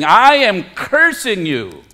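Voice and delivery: mildly heated acted curse; emphatic retold curse; cursing. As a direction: lay a curse on the accuser, as Peter. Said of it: "he started cursing to himself and everyone else".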